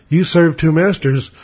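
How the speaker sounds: slow, matter-of-fact retelling; measured, straightforward challenge; blunt and direct. Retold or imitated. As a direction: state it directly, taking your time. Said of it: "kind of blunt and direct".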